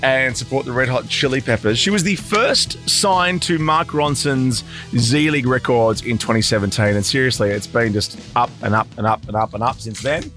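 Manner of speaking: hoarse after a night of screaming; rough, worn-out croaky voice. Real, not acted. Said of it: "Apologies for my croaky voice".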